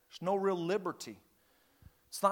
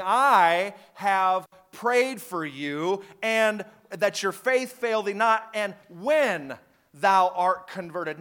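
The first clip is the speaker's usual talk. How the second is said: slow, tender promise of prayer; Jesus speaking; 6 dB louder, much slower than usual. Retold or imitated. Jesus reassuring Peter, slow and tender. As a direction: say it slowly, like Jesus comforting. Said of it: "Jesus speaking".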